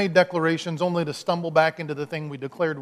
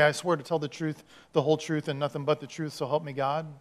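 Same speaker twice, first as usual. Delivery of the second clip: recited oath; 2 semitones lower, 7 dB quieter than usual. Shown as a demonstration. Witness with hand on Bibles, recited oath. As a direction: recite the oath quietly by rote. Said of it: "hand on a stack of Bibles and we say".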